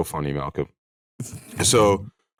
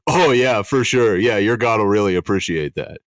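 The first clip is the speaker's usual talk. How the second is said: sarcastic; 2 semitones higher, 3 dB louder than usual. Retold or imitated. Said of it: "he's like".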